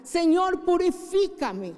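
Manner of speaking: impassioned prayer calling on the Lord; fervent prayer. Acted. Pastor praying fervently for the congregation, impassioned prayer. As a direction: pray it out with rising fervor. Pastor prays aloud in sermon.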